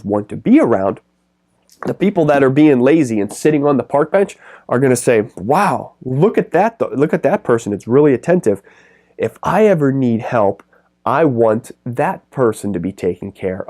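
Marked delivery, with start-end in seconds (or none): 5.4-13.7 higher-pitched mock admiration; impressed onlooker. Bench sitters spotting an attentive dog walker, imitated as impressed. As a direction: imitate a bystander wowed by what they see.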